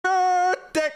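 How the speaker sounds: choppy, cut-off words like bad lag; laggy voice. Shown as a demonstration. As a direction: break it up like a lagging stream. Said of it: "Happy birthday with lag".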